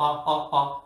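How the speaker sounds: three short, even test notes; mock voice exercise, lightly done; vocal warm-up. Preacher mocking someone warming up before crying for help, vocal exercise. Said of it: "무슨 발성 연습한다고".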